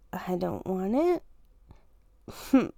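very slow whisper; slow whispered confession. Real, not acted. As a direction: drag it out in a sneaky whisper. Trying to pass off last bite.

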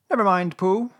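high little consoling voice; comforting Piglet. A narrator's reading. Piglet cheering up left-out Pooh, comforting. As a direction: console a friend, pitched high. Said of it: "said Piglet comfortingly".

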